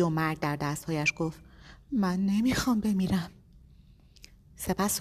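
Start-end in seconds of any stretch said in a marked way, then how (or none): 1.9-3.3 put-on thin small-boy voice. A narrator's reading. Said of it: "با صدای نازک و از ته چاه درآمده، مثل صدای یک پسر بچه".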